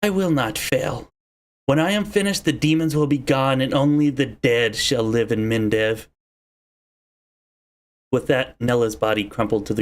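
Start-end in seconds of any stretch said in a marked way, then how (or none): 0.0-6.1 supremely confident. Acted. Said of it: "with supreme confidence".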